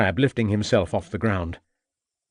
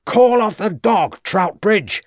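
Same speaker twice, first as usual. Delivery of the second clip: much higher, loud, slow urgent yell; 11 semitones higher, 7 dB louder, slower than usual. A narrator's reading. Inspector yelling at the farmer to call off the dog. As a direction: yell across the yard in alarm. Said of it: "yelled Ravenscroft".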